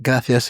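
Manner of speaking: "gracias" said as grathias; Spain gracias with th. Shown as a demonstration. Showing the Spain lisp on "gracias". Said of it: "Spain with the eth".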